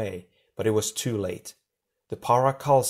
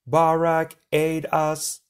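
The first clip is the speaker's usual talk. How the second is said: high, louder desperate plea; pleading; 7 semitones higher, 3 dB louder, much slower than usual. A narrator's reading. Crushed monster pleads to its master, high and desperate. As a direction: beg for rescue. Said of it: "the Nuvokal pleaded".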